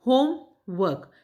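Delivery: होमवर्क said slowly and carefully; slow model word. Shown as a demonstration. Teacher modelling होमवर्क slowly for students. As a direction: draw out होमवर्क for the class to copy. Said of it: "इन दोनों को मिला के".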